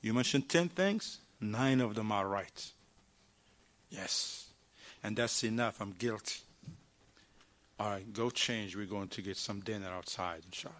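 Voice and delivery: low, soft, gentle admission; soft conceding wife. Retold or imitated. Wife softly admits she was wrong. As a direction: give in quietly and tenderly. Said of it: "she finished, say".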